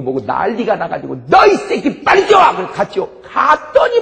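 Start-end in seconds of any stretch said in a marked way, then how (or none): 1.3-2.4 high, loud yelled order; a raging officer yelling a command; furious shout. Retold or imitated. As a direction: bellow it at him. Officer shouting, demanding the man.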